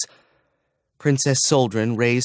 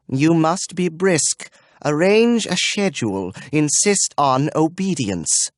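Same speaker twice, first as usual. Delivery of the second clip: brisk command; 6 semitones higher than usual. Acted. Impatient dame ordering the other to be firm. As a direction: lay down the law. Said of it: "gave an annoyed snap of tongue".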